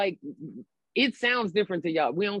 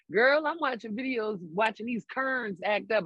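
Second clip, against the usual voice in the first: higher, imitated Baltimore speech; mother's Baltimore accent; 4 semitones higher than usual. Mother watching Karen videos, imitated Baltimore accent. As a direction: slip into a Baltimore mom's accent. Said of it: "fall back into her accent".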